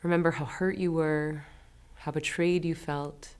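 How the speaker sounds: gentle, measured voice with long pauses; guided meditation. Acted. Guide leading listeners through forgiving someone, calm and unhurried. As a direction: ease them into it, leaving space after each prompt.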